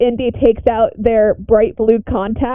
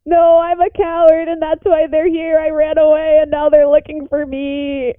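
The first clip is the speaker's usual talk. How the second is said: tearful in character; 5 semitones higher than usual. Acted. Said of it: "just sobbing".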